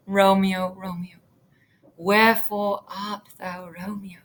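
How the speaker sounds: Juliet calling out. Shown as a demonstration. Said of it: "she's looking at the balcony like this and saying".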